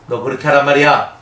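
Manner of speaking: put-on a parent raising the voice at a child; scolding parent. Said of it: "어디까지 목소리를 높여야 돼요".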